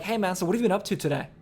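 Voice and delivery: quick, pressing interrogation; interrogating. Shown as a demonstration. Sales coach demoing an interrogating question, quick and pressing. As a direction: fire it off like an interrogator. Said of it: "like, I'm interrogating you".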